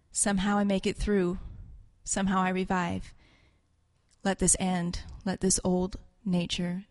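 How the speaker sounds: low, measured confession; solemn reading. Acted. Someone mortally wounded confesses to the Lord, solemnly. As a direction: read it gravely, pausing between phrases.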